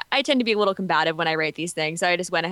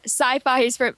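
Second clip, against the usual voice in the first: whiny voice; 4 semitones higher, slower than usual. Pretend. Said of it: "I had to do my whiny voice again".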